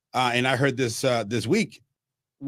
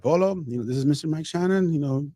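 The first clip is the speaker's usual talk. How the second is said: imitating Ann Carroll; 6 semitones higher than usual. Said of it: "she's like".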